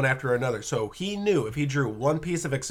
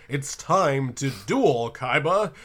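slow, dramatic fighting game announcer; much slower than usual. Retold or imitated. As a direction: call the duel like a ring announcer. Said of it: "with an announcer voice".

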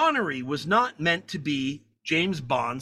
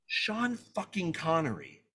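awed thought; 6 dB quieter, slower than usual. Retold or imitated. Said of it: "and I'm thinking".

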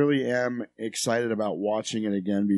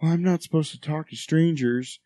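put-on child voice; 5 semitones higher, slower than usual. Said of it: "he's like".

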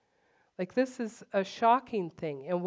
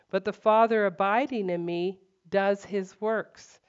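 exasperated Jesus; 3 semitones higher, 4 dB louder than usual. Retold or imitated. Jesus rebuking Philip for not understanding, exasperated and louder. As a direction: let the frustration push each question up. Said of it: "he's so exasperated with them".

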